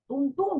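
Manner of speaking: two spoken knocks; imitated knocking. Wolf knocks at grandmother's door, imitated knocking. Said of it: "como golpea a la puerta".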